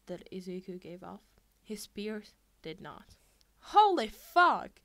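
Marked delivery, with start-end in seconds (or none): 3.6-4.8 high, loud, slow shocked shout. A narrator's reading. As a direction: yell it in panic at the snake. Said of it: "Sarah shouted".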